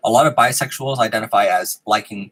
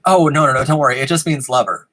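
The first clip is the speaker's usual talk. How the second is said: hasty reassurance; 4 semitones higher, 4 dB louder than usual. Retold or imitated. Replays hastily reassuring family at dinner.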